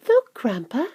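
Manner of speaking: put-on high-pitched boy's call; excited cry. A narrator's reading. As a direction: call out a sudden discovery. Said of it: "cried Charlie".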